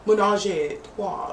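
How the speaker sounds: lightly put-on French accent; attempted French accent. Shown as a demonstration. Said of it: "try it again with a French ac-, accent".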